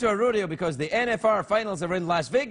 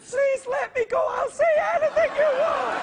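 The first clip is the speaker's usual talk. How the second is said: much higher, loud squeaky begging, laughing; squeaky mock begging; 3 dB louder than usual. Host begs to be let go in a squeaky hammed-up shriek. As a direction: shriek a hammed-up plea for release.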